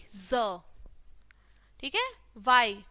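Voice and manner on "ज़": ज as a buzzing "zuh" with short vowel; letter sound demo. Shown as a demonstration. Teacher showing the sound in xylophone, letter sound demo. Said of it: "एक्स की sound आएगी".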